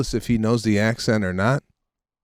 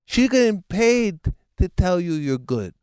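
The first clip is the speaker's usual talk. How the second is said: blunt father; 10 semitones higher than usual. Retold or imitated. Father telling son the coach is paid, blunt. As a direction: imitate dad schooling his naive son in a high voice. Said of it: "He goes".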